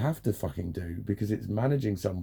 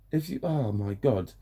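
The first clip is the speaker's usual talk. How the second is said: normal talking voice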